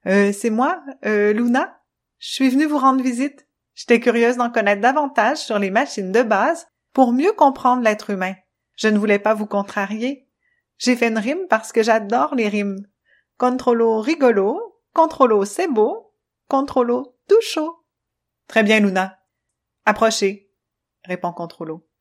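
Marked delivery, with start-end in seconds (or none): 0.1-17.9 put-on a touch brighter curious girl voice; Luna voice. Luna's voice in the story. 18.5-20.5 loud, clipped machine voice, stern; choppy robot voice. Acted. Controllo's voice.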